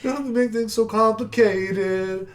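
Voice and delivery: a hint of a smug villain. Voicing villain lines.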